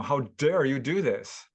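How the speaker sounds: mildly acted indignation; retold angry challenge; livid retelling. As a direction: imitate his outrage, lean into the accusation. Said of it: "he was livid with anger".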